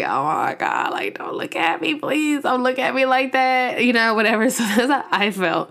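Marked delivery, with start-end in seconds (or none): 0.0-3.8 mock flustered pleading, pitch jumping about; lightly hammed-up nervous plea; retold nervousness. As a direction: act out being shy under someone's stare. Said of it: "you get hella nervous".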